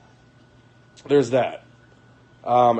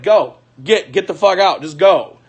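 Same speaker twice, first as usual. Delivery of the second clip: louder, insistent "get out"; loud order; 3 semitones higher, 5 dB louder than usual. Retold or imitated. Retelling throwing out the drunk girlfriend, loud. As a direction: shout her out the door.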